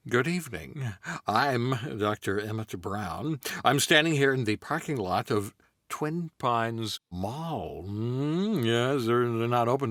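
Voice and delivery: stammering scientist on camera; Goldblum as Doc. Acted. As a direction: Doc introducing the experiment, halting. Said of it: "Doc Brown ... Jeff Goldblum".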